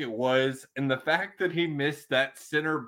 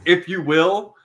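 seventies wrestling manager; 5 semitones higher, 6 dB louder, slower than usual. Retold or imitated. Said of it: "his seventies wrestling manager impersonation".

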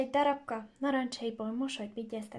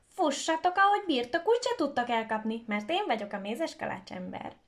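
taunting shout; 2 semitones higher, 4 dB louder than usual. Acted. Gingerbread boy taunting the rooster, loud cheeky shout. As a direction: crow the boast at the chasers. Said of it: "aki azt kiabálta".

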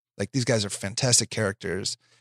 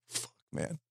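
whispered curse; 13 dB quieter than usual. Retold or imitated. Retold despair, whispered curse.

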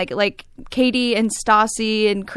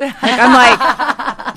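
laughing; 6 dB louder, much slower than usual. Real, not acted. Laughing mid sentence.

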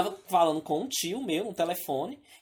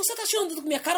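mock thug; 10 semitones higher, faster than usual. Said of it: "Aí o menino".

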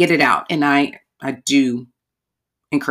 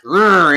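mock growl; 2 semitones higher, 6 dB louder than usual. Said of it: "I'm going after it".

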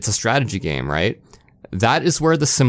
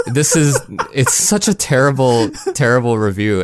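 laughing. Real, not acted. Laughing at the review.

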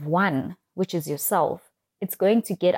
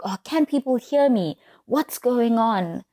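higher-pitched, mock worried self-talk; mildly panicked thought; 5 semitones higher than usual. Speaker panicking to herself about being heard, mildly worried. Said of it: "panic and I think".

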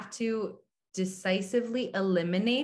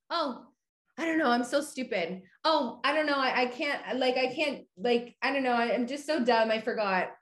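mocking insecure self-talk; 3 semitones higher than usual. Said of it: "they just talk to themselves in such a bad, negative way".

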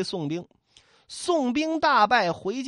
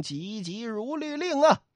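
incantation. A narrator's reading. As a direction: intone a spell, drawing it out. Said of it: "念了一声".

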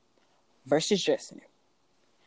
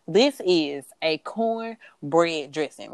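southern accent; much slower than usual. Real, not acted. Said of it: "peep my southern accent".

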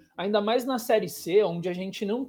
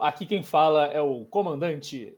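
pilot over the radio; 5 semitones lower than usual. Retold or imitated. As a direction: do the captain's cabin announcement. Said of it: "para de ficar imitando avião".

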